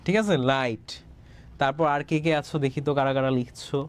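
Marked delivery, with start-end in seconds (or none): 0.5-0.9 লাইট said low with a falling end and a clear ai glide; model word. Shown as a demonstration. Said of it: "এটা কিন্তু লাইট হবে".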